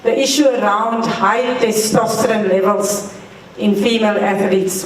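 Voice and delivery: speaking up, clearly projected; to someone hard of hearing. Real, not acted. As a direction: push the question out to the room. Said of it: "I'm going to speak louder".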